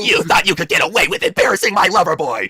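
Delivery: slow, gloating taunt; slow mock villain. Stephanie gloats at her enemy, slow and smug. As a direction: savor every word like a cartoon villain. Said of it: "Batman said impression".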